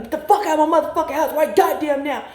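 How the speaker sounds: fast, high angry rant imitating her father; father's yell. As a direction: throw his furious words back fast and high. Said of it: "and he telling me".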